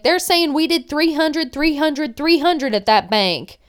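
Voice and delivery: retold agitation, starting high then dropping; mock-upset report; agitated complaint. Acted quarrel over missing money.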